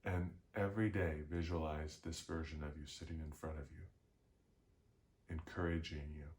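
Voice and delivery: measured meditation guide with long pauses; guided visualization. Real, not acted. Guide leading listeners to picture their future self, unhurried meditation delivery. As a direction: lead them gently inward, phrase by phrase, leaving space.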